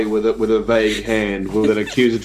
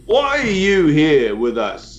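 slow suspicious question; 5 semitones higher, slower than usual. Acted. Banfor interrogates Ellerin.

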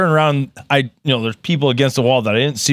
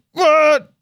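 higher, startled yelp of a what; surprised what; 12 semitones higher than usual. Retold or imitated. Man retells learning they want two samples, high startled what. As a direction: pop it up high in mock disbelief. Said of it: "I'm like".

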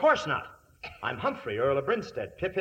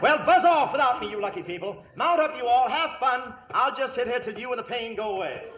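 high, chirpy British send-off; hammed-up posh English; 9 semitones higher than usual. Fake earl sending hunters off, posh British. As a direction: wave them off like a silly lord.

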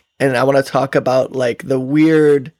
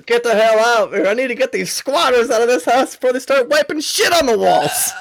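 hammed-up landlord yelling, higher pitch; mock angry landlord; 9 semitones higher than usual. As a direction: play a ranting landlord evicting tenants. Playing landlord evicting squatters.

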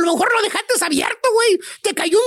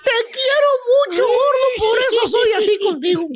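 "Te quiero mucho, gordo" hammed-up, higher and tearful; cariñosita; 3 semitones higher than usual. La esposa mimosa exagera su cariño al marido. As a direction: overdo the mock-weepy sweetness. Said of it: "Cariñosita se pone".

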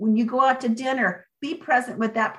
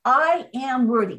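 heartfelt affirmation; 3 semitones higher than usual. Shown as a demonstration. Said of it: "You gotta feel it in your heart".

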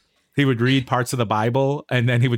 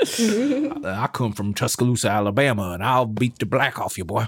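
mock Alabama accent; 4 semitones lower than usual. Imitating an Alabama rally-goer threatening Santos. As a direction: play a menacing Alabama redneck. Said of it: "imitating a Southern rally-goer".

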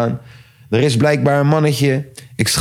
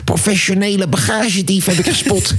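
lightly imitated excited report, pitched up; Boevenspotter; 5 semitones higher than usual. Thief spotter reporting a luggage thief, lightly mimicked excitement. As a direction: give a hint of an eager amateur thief catcher. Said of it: "De boevenspotter".

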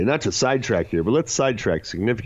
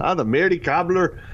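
shaky attempt at an Irish lilt, pitched up; botched Irish pub-name accent; 5 semitones higher than usual. Shown as a demonstration. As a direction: try an Irish accent and miss. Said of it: "work on our Irish accent".

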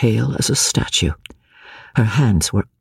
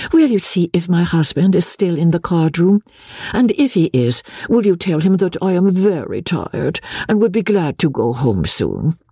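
a hint of a tired lady, higher; lightly voiced Lady Blakeney; 6 semitones higher than usual. Marguerite voiced by narrator.

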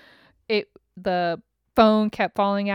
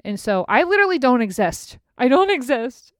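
exasperated rant; 4 semitones higher, 6 dB louder than usual. Real, not acted. Venting, rising to loud.

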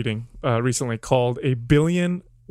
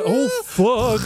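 excited exclamation; 9 semitones higher than usual. Retold or imitated. Acting out squiggly TV moment.

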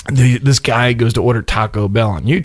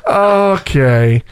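a light squeaky cartoon okay; Mickey Mouse voice; 4 semitones higher than usual. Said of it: "the two cartoonish voices I picked up".

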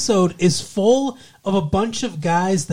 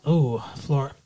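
Florida accent; 4 semitones lower than usual. Shown as a demonstration. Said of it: "Florida's like".

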